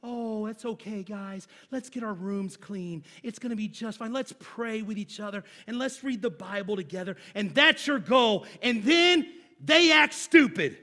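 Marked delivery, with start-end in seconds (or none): 0.0-7.2 much softer, gentle soothing parent; a soft, gentle Mister Rogers hush; gentle parent calming the kids. Pretend. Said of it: "Mister Rogers in our home". 8.6-10.8 exasperated. Real, not acted. Punchline about kids misbehaving.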